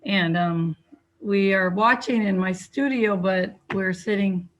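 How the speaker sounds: muffled by a face mask; talking through a mask, slightly muffled. Real, not acted. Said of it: "I have my mask on".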